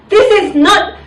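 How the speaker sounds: high, slow, emphatic learner's recital; mock-earnest schoolbook sentence; textbook English answer. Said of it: "I have to learn English like".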